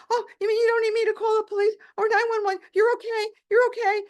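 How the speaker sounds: fast and high, tumbling relief; relieved rush. Retold or imitated. Doctor on the phone realizing she's safe, relieved. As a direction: blurt out the relief.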